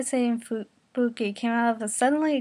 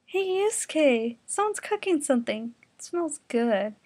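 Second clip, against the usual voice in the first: said with a smile; 4 semitones higher than usual. Acted. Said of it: "Keiko said with a smile".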